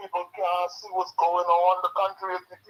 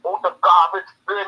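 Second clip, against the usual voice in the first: angry rant; 5 dB louder than usual. Real, not acted. Caller venting anger on radio.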